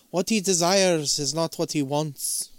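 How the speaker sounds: lightly imitated Irish ghost; slow line with a hint of Irish; Irish accent. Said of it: "in a very Irish voice".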